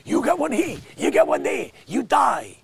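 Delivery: high, fast hammed-up doctor voice; mock doctor. A doctor lecturing about masks, hammed-up high voice. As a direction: rattle off orders like a frantic doctor. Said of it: "He was like".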